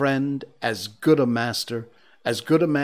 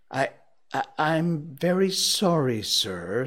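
halting, higher-pitched stammer; timid apology; 4 semitones higher than usual. Acted. Late clerk apologizes to his boss, timidly. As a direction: stammer it meekly, sinking on sir.

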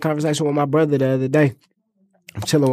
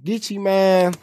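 mouth full; 6 semitones higher, much slower than usual. Real, not acted. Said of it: "I'm eating on this popcorn".

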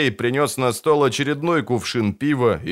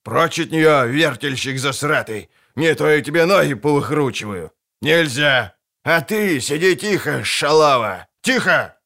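angry yelling; 3 semitones higher than usual. Acted.

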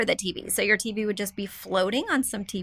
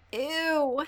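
short grossed-out ew; disgusted ew; 4 semitones higher than usual. Real, not acted. Host reacts with disgust to the listener's old rug. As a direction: recoil at the thought.

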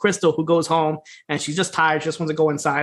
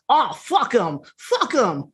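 a hint of a higher, dismissive wrestler voice; lightly voiced brush-off, pitched up; A J Styles impression; 5 semitones higher, much slower than usual. Jack on the phone with Willie, lightly mimicked, higher. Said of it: "in his best A J Styles impression".

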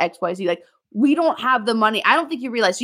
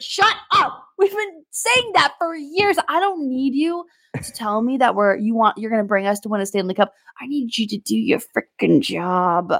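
wild rant. Real, not acted. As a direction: vent years of frustration at the new guy. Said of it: "Your wild rant was better than mine".

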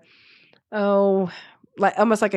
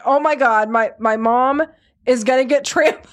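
mildly panicked daughter, higher voice; freaking out; 4 semitones higher than usual. Retold or imitated. Daughter fears mom will be trampled, mock freak-out. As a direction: retell a daughter's alarm, lightly. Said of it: "My daughter is freaking out".

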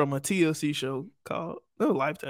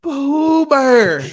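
high, loud drawn-out holler; calling out; 8 semitones higher, 10 dB louder than usual. Pretend. Calling her stepdad to fetch her, loud mock holler. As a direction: holler the name across the yard.

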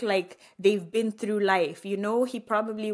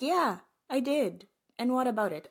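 mock-defiant, pitched-up comeback; defiant inner retort; 6 semitones higher than usual. Wife silently answering her unhappy husband in her heart, defiant. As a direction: say it like an unbothered challenge in your head. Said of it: "in my heart I'm like".

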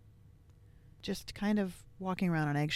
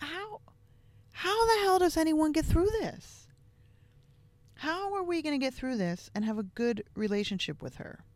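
desperate disbelief; 4 semitones higher than usual. Retold or imitated. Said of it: "I just thought".

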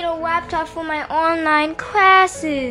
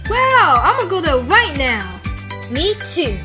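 put-on high, thrilled kid voice; excited little girl; 5 semitones higher, 4 dB louder than usual. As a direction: squeal with delight. Kids thrilled by laptops.

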